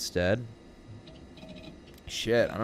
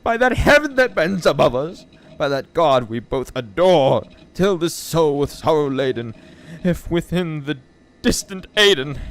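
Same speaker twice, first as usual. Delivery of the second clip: loud, higher, pleading verse reading; impassioned poem recital; 7 semitones higher, 9 dB louder, slower than usual. Acted. Reader imploring the raven for word of Lenore, impassioned. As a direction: declaim it with mounting desperation.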